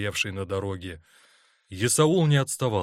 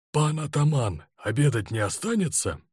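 careful, deferential inquiry; cautious question; 5 semitones higher than usual. A narrator's reading. Inspector to the ataman leaving the parade, cautious question. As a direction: ask the chief cautiously, testing the water. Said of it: "осторожно спросил".

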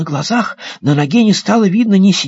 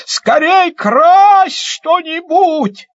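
excited shout; 9 semitones higher, 4 dB louder, much slower than usual. Acted. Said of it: "как закричит".

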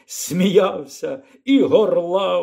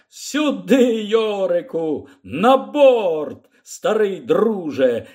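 a higher, hearty call to a friend; hearty shout; 5 semitones higher, slower than usual. Acted. The aeronaut calls the bear into the basket, hearty shout. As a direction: hail the bear aboard. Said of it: "крикнув Лі Скорсбі".

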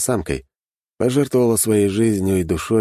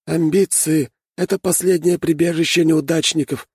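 quoting solemnly; 12 semitones higher than usual. A narrator's reading. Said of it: "тут же процитировал Один".

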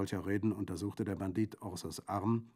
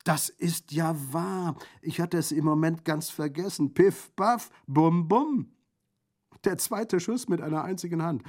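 high, loud, exuberant bandit voice; jovial bandit, delighted; 6 semitones higher, 8 dB louder than usual. Acted. Bandit admires Orso's one-handed shot, exuberant. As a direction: celebrate the shots with booming relish.

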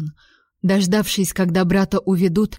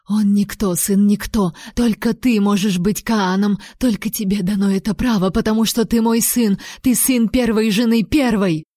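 plain reading voice

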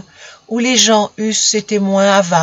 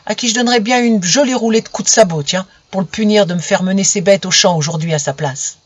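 indignant grumbling. Acted. Farm lad grumbling angrily.

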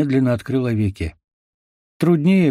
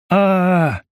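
higher, louder pained scream; 8 semitones higher, 3 dB louder than usual. A narrator's reading. Seized wounded forester screams in pain. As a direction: scream as they drag you off. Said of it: "закричал Леший".

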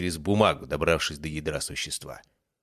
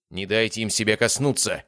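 urgent warning; 4 semitones higher, 4 dB louder than usual. Acted. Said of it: "предупредил я".

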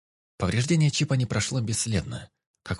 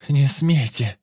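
frightened cry; 6 semitones higher, 7 dB louder, much slower than usual. A narrator's reading. Captive shrinks from Vik.

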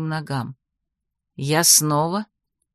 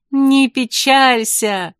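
slow, higher, drawn-out consolation; smiling reassurance; 5 semitones higher, 4 dB louder, much slower than usual. A narrator's reading. Heroine smiles at the sad wizard below, reassuring. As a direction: call it down gently with a smile. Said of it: "улыбнулась я ему".

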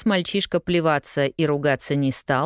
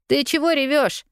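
lightly voiced boy; 11 semitones higher than usual. A narrator's reading. Newsboy's voice in narration.

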